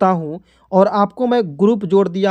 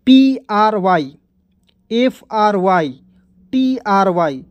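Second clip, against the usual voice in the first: slow spelling; slower than usual. Shown as a demonstration. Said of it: "देखिएगा".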